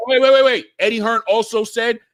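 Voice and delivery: loud, high cut-in; loud interruption. Real, not acted. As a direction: shout over him to stop him. Cutting in over a rival.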